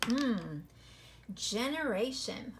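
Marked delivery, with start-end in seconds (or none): 1.3-2.5 slow reading. Shown as a demonstration. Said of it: "let's clap this one out".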